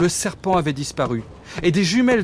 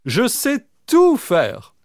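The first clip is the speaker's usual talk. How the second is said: higher, slow boastful dog voice; 6 semitones higher, much slower than usual. Acted. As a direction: brag it slowly as the dog. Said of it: "répondit Jean Waf". (chien vantard, lent et plus aigu)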